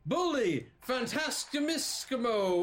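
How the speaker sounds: high, loud arena cheers; announcer's yell. Acted. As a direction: shout it out to the whole crowd. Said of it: "The announcer yells out to everyone".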